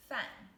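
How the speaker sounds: 饭 said as a sharp falling fàn; teacher showing viewers the fourth tone on 饭, crisp drop; fourth tone demo. Shown as a demonstration. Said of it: "the fourth tone".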